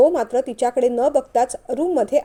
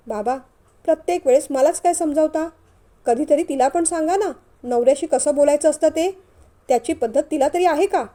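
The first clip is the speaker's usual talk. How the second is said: raised, mildly indignant complaint; indignant protest; 3 semitones higher than usual. Acted. Son complains that father only scolds him, indignant. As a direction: argue back, a touch aggrieved.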